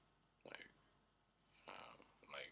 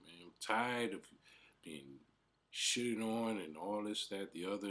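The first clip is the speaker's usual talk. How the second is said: exasperated complaint; 5 semitones higher, 4 dB louder than usual. Retold or imitated. Retold crying complaint to brother.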